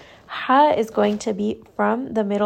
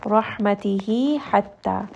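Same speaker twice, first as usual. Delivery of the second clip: continued recitation; slower than usual. Shown as a demonstration. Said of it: "Two count mad".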